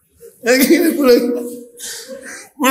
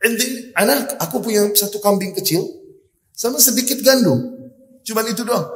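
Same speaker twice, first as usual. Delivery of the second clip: lightly voiced wife, a bit higher; a hint of a wife speaking up to her husband; wife telling Jabir what little food she has, in a light higher voice; wife's reply; 7 semitones higher than usual. Wife answers Jabir about food.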